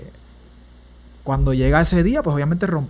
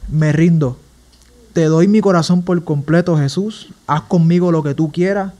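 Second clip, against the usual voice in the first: re-enacted prayer of surrender, building louder; clamor a Dios; 5 dB louder than usual. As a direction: plead with God, growing louder and emphatic. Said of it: "clamándola a Dios". (clamando a Dios, recreado, cada vez más fuerte)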